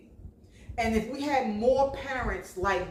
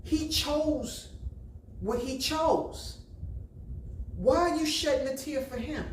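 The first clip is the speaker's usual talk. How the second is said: stern scolding; 4 semitones higher than usual. Retold or imitated. Mom scolding son, retold.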